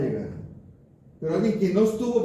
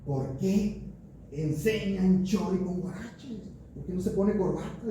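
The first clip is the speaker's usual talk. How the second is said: higher, slow, puzzled church sister voice; questioning church sister; 4 semitones higher, 3 dB quieter, slower than usual. Retold or imitated. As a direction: voice the fussy sister who questions the pastor's sandals. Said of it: "me dice una hermanita cristiana".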